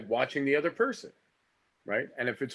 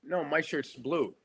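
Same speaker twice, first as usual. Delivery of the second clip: flat repeating back and forth; Meisner repetition exercise; 4 dB louder than usual. Shown as a demonstration. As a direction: repeat the line back, listening to your partner. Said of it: "let's do one right now".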